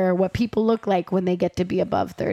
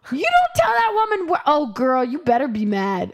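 fired-up rant; 5 semitones higher than usual. Real, not acted.

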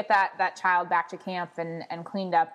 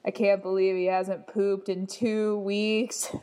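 laughing; slower than usual. Retold or imitated. Staff member quoted while laughing.

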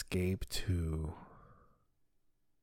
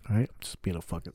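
ordinary delivery

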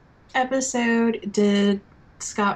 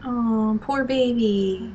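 mock sympathy; 3 semitones higher, much slower than usual. Mocking the jealous player.

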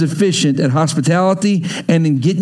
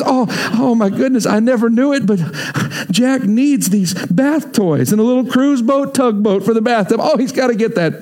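mock gushing shopper; 6 semitones higher than usual. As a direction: gush as if talking yourself into buying. Acting out eager cruise shoppers.

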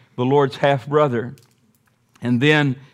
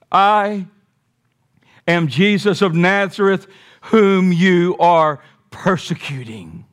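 voice of Jesus; slower than usual. Acted. Acts out Jesus answering Saul.

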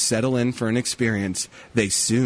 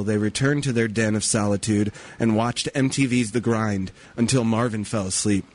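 story narration. A narrator's reading. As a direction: read it like a mock after-school special.

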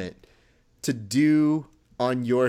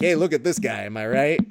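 fake Brazilian accent; 4 dB louder, faster than usual. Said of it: "All with this fake Brazilian accent".

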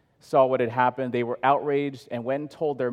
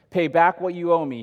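louder and higher, a harsh demand; 5 semitones higher, 6 dB louder than usual. A narrator's reading. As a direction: bark it at the debtor like a creditor losing patience. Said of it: "he demanded".

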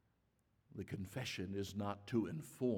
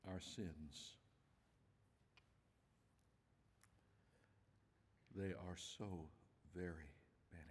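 unhurried, earnest public prayer; prayer of confession; 7 dB quieter than usual. Real, not acted. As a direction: confess to God haltingly, phrase by phrase.

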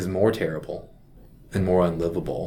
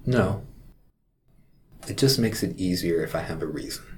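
matter-of-fact, no drama; very plainly. Retold or imitated. Grieving mother answering the chaplain, very plain matter-of-fact. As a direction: state it simply, as a bare fact. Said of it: "very plainly".

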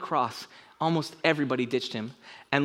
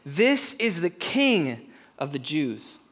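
slow read; much slower than usual. Shown as a demonstration. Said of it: "that inscription was sarcastic".

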